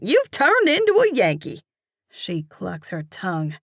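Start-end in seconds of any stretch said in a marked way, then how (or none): 0.0-1.6 much higher, louder mock dismay; teasing exclamation. Cashier teasing the narrator about her accent, excited. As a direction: tease her with a gasp.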